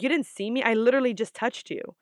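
a light retold sass; incredulous attitude. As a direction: throw it back at her in disbelief. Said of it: "I had an attitude".

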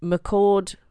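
McCord said carefully, as "muh-CORD" with stress on CORD; saying McCord. Shown as a demonstration. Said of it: "that's how you say it".

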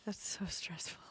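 breathy whisper. Real, not acted. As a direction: say it under your breath. Whispered reaction.

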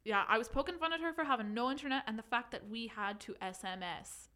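put-on reading in a light Irish accent; a hint of Irish accent. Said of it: "do you think I could do it in Irish?".

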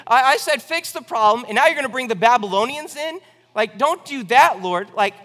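high, loud whiny complaint; a prophet whining up at God, high and loud; whining Habakkuk. Retold or imitated. Habakkuk complaining to God, high whiny protest. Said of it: "he's like".

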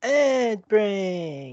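gargled words, high and wet; water in mouth. Pretend. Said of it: "with water in your mouth".

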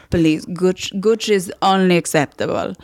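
lightly dismissive Italian fashion snob; Italian-accented cousin, appalled at the suggestion. Retold or imitated. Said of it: "an impression of him".

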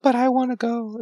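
mock whiny mermaid, high and petulant. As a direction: whine it like a pouty young princess. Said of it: "And she says".

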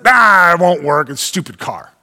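mock-whine about the stupid car; grumbling. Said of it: "That's grumbling".

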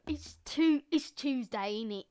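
a goofy little bit, lightly voiced; silly Tuesday voice. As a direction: put on a playful character voice. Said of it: "especially 'cause I can go".

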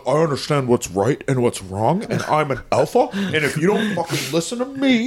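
lightly done alpha-bro Andrew Tate, mostly own voice; a hint of Andrew Tate's swagger; Andrew Tate impression. Cohost jokingly voicing Andrew Tate as Henry, mild impression. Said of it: "it's a really good Andrew Tate".

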